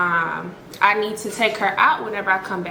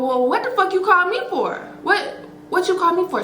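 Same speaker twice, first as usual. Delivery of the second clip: retold indignant yell; 10 semitones higher than usual. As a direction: snap back, pitched way up. Angry reply on the phone.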